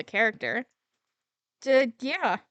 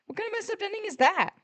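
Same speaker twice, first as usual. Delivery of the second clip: outraged disbelief; 9 semitones higher than usual. Acted. Indignant at the show's ending.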